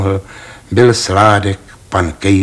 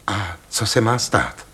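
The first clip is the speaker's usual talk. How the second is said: eager question; 7 dB quieter than usual. Acted. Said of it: "tázal se dychtivě".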